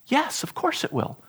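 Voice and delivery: hushed whisper of a private thought; soft whispered yes; whispered aside. Retold or imitated. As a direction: breathe it like a secret agreement. Imagined inner reply, whispered.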